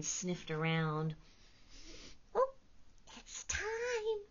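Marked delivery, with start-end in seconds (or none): 2.3-4.2 a small creature's hushed alert; whispering porcupine. Acted. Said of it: "she whispered".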